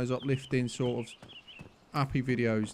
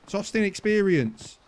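insistent pleading; 6 semitones higher than usual. Real, not acted. Insisting while attacked.

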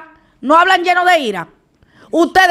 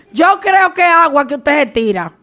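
ordinary delivery

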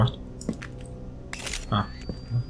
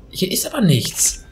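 whispering while hiding; 6 semitones higher than usual. Real, not acted. Hiding from the monster.

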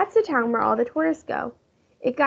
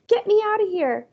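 mild yell; 9 semitones higher than usual. A narrator's reading. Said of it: "Fudge yelled".

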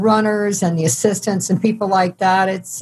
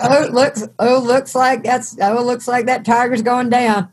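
higher-pitched Southern wildlife narrator; Southern accent; 4 semitones higher than usual. Acted. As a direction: play a Southern nature-show narrator. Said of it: "you never hear a Southern accent".

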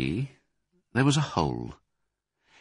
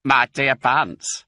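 slow, smug and louder; crafty; 3 semitones higher, 4 dB louder than usual. Acted. Crafty Bean gloating at Bunce, slow and smug. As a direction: savour the one-upmanship. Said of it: "said the crafty Bean".

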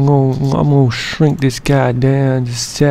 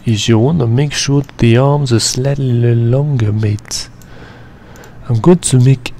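put-on Australian accent; 2 semitones lower than usual. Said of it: "I'm not the best at doing accents".

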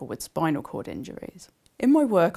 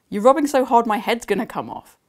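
amused dad; 7 semitones higher, 10 dB louder than usual. Acted. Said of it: "He was laughing at me".

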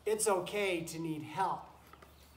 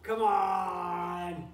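louder come on, playfully exasperated; mock protest; 7 dB louder than usual. Real, not acted. Telling a goat off fondly, playful protest. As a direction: push it out like a fond complaint.

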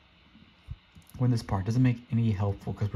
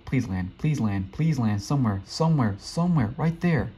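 urgent pleading. Real, not acted. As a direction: beg the jump to land, more insistent each time. Urging the jump to land.

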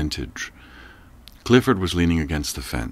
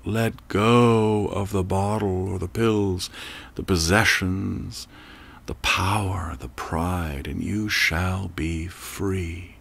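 calm, soothing command; slower than usual. Acted. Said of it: "the voice calls out".

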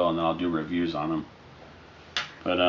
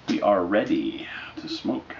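whispering. Real, not acted. About to light the pipe.

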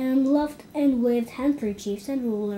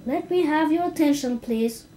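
louder, higher, quicker call for attention; repeated call; 5 semitones higher, 5 dB louder than usual. Acted. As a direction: insist again, a bit faster. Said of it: "repeated Stuart".

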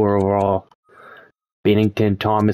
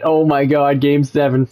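excited; 5 semitones higher than usual. Real, not acted. Sim reaches game seven.

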